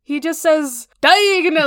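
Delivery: "diagonally" run together like the ordinary adverb; mimicking a mumbled name. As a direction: slur "diagonally" into one word. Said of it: "which sounds like something completely else".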